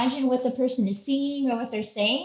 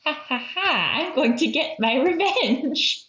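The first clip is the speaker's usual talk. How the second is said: playful villain; 3 semitones higher than usual. Pretend. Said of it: "they know".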